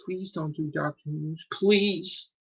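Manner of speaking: rising to a high loud begging shout; mock pleading. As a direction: beg in mock panic. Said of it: "trying to tell me".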